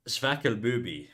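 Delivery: slow, tentative German accent, Zwackelbubi starting like "sfackel"; attempted German accent. Shown as a demonstration. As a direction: try Zwackelbubi as a German would, slowly. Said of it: "don't know how to do a German accent".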